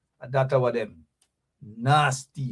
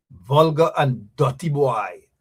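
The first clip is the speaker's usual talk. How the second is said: put-on Jamaican accent; 4 dB louder, slower than usual. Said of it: "as the Jamaicans would say".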